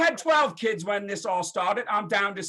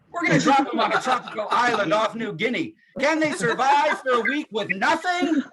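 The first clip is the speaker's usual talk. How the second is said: a hint of a dramatic promo voice; mock TV announcer. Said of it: "every show starts like this".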